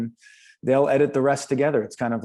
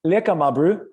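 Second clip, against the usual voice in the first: put-on a light South African accent, with lekker lifted higher; 4 semitones higher, 3 dB louder than usual. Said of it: "The accent".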